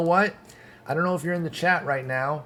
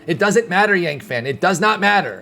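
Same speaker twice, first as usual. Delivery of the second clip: louder, insistent and exasperated, punching each not; heated; 3 semitones higher, 4 dB louder than usual. Real, not acted. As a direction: push back hard on a viewer who keeps arguing. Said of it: "Pardon me for getting heated".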